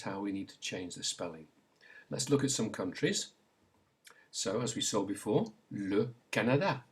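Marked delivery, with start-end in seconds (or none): 5.7-6.8 "le Canada" in French, clear a in each syllable; French pronunciation. Shown as a demonstration. Teacher gives learners a country to repeat, French pronunciation. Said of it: "Say it".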